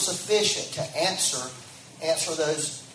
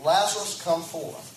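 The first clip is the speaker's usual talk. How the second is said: mild loud call. Retold or imitated. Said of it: "he cried out with a loud voice".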